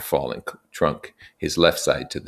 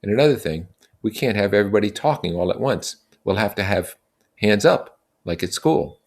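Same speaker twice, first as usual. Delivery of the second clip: put-on raised, earnest young leader; Ralph addressing the boys; 5 semitones higher than usual. Ralph explaining their situation to the assembly, earnest and raised. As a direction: lay out the facts to the group.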